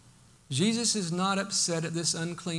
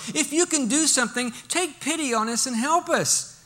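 higher, pleading with doubt; skeptical plea; 7 semitones higher than usual. Retold or imitated. Preacher voicing the father's doubtful plea for his son, skeptical. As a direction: ask for help while doubting it. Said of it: "He's filled with skepticism now".

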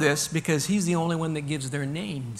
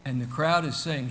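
normal talking voice

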